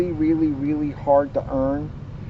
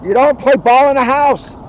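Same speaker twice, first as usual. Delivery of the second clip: higher, louder parent scold; mock scolding; 9 semitones higher, 11 dB louder than usual. Reader mock-scolds the cubs for playing ball indoors.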